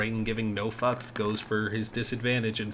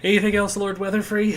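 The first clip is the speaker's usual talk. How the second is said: grand announcer voice; 11 semitones higher, 8 dB louder, faster than usual. Acted. DM addresses player grandly.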